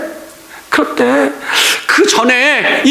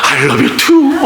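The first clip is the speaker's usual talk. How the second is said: mock swooning reply; 5 semitones higher, much slower than usual. Woman replies in film scene.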